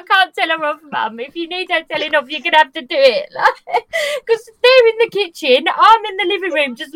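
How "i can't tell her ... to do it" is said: laughing. Retold or imitated. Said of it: "I'm like".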